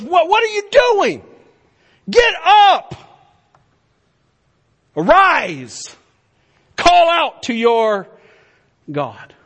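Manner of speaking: captain shouting. Acted. Captain shouts at sleeping Jonah to pray. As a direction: bark him out of bed. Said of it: "this guy goes in and goes".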